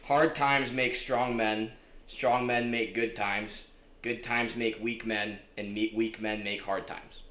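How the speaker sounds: slow, deliberate quote; slow recitation. Shown as a demonstration. Sharing favorite quote, slow deliberate recital. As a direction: weigh each phrase slowly. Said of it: "one of my favorite quotes".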